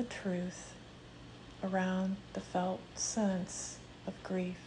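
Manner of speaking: calm meditation voice with long pauses; unhurried, measured meditation leading; guided meditation. Real, not acted. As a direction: guide them gently into the breath, leaving space between phrases. Leads a grief meditation.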